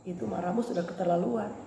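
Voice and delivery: soft, low inner voice of the Holy Spirit; voice of conscience. Acted. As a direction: gently scold from inside the heart. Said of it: "Ini Roh Kudus bicara terus di hati nuraniku".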